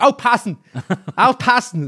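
high-pitched, playful mock shout; imitated childhood yelling. Guest imitating their childhood yelling of a funny word, high playful mock shout. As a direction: call it out high like a silly kid. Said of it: "da habe ich dann immer rumgeschrien".

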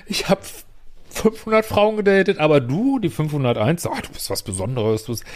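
high-pitched mock player boasting, then a sweet fake compliment; mock womanizer line. To the listener, imitating the man who flatters every woman, mock smug. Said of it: "das sagen alle Menschen".

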